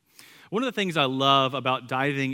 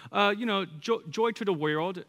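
put-on four-year-old son; 7 semitones higher than usual. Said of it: "our four-year-old".

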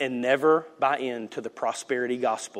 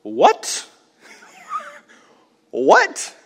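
high rising What, What, far up; mock stunned congregation; shocked disbelief; 5 dB louder than usual. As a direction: gasp it out in disbelief. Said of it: "we all go".

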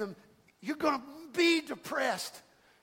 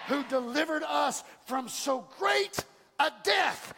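drawn out, louder, each word hammered; slow shouted proclamation; 4 semitones higher, 4 dB louder, slower than usual. Shown as a demonstration. Pastor proclaiming scripture to his church, slow shout. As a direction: shout the verse to the rafters.

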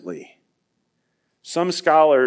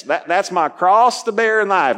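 put-on Southern accent; 3 semitones higher than usual. Preacher mimicking Southerners about their cross, put-on Southern accent. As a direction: imitate a folksy Southerner. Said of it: "Maybe they were all Southerners".

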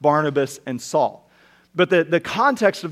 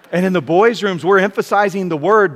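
louder emphatic restatement; 3 semitones higher, 6 dB louder than usual. Real, not acted. Preacher repeats the boys' rooms line, louder and emphatic. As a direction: punch it out louder to the congregation.

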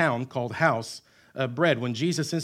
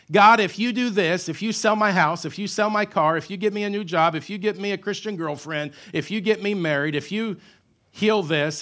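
higher, louder pleading deal-making; a churchgoer bargaining with God, higher and louder; mock bargaining believer; 4 semitones higher, 4 dB louder than usual. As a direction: bargain with God like a pushy customer.

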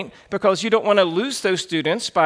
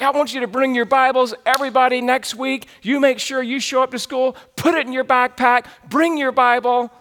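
imitated pep talk, pitched up; mock-earnest exhortation to a group of students; rallying youth pastor; 5 semitones higher than usual. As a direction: urge them on like a keen youth pastor.

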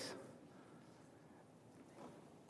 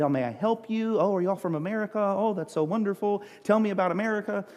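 imitating polite waitress; 3 semitones higher, faster than usual. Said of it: "She said".

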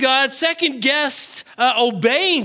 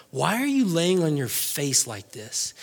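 low, softened scolding as God; stern divine rebuke; 7 semitones lower, 6 dB quieter than usual. Acted. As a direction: rebuke him quietly, pitched well down. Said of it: "I don't want God to ever speak to me like that".

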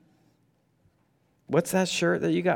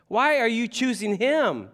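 indignant apostles; 8 semitones higher than usual. Retold or imitated. Apostles' displeasure voiced.

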